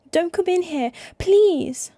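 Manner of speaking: high, loud frantic begging; panicked plea. Acted. Brother pleading with sister to stay out, panicked. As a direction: beg her desperately to stay out. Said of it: "He sounds panicked".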